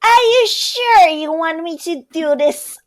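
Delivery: usual speaking voice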